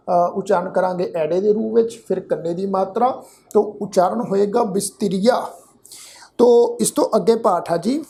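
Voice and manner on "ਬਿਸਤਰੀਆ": ਬਿਸਤਰੀਆ with s and t joined; blended sounds. Shown as a demonstration. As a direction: blend the st in ਬਿਸਤਰੀਆ, ending "-iya". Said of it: "ਮਿਲ ਕੇ ਮਿਲਵੀ tone".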